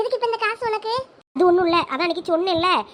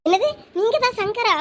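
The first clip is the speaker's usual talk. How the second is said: ordinary talk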